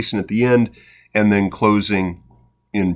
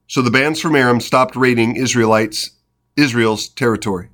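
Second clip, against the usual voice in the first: lively, steady Bible narration; scripture reading; 3 semitones higher, 3 dB louder, faster than usual. A narrator's reading. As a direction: read the story aloud, lightly animating the dialogue. Reads scripture aloud.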